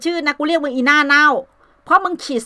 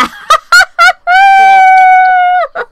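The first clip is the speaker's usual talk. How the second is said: loud high laugh; 9 dB louder than usual. Real, not acted. Loud laugh during live chat.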